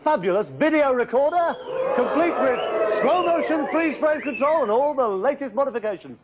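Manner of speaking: bright, showy prize announcement; cheesy quiz-show patter; game show host. Acted.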